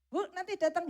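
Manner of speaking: put-on a kid tugging at mum's sleeve; child asking mother.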